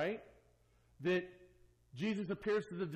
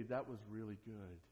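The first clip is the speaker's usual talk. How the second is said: eager believer; 8 semitones lower, 10 dB quieter than usual. Retold or imitated. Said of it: "there are those who say".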